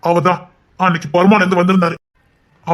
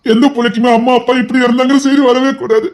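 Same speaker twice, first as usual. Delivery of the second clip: anguished outcry; 5 semitones higher, 4 dB louder than usual. Acted. Grieving outburst over parents' death.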